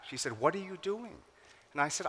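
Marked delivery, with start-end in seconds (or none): 0.4-1.2 mad mother. Retold or imitated. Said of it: "And she was mad".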